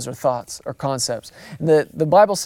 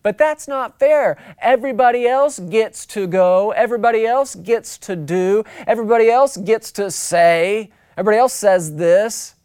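higher-pitched mock kid's complaint; protesting kid; 4 semitones higher than usual. Kid protesting to mom and dad after a no, mock indignant. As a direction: plead unfairness like an indignant child. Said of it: "just like every kid has ever said".

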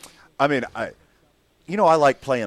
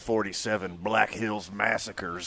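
put-on old-timey voice. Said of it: "you're using old, old-timey voice".

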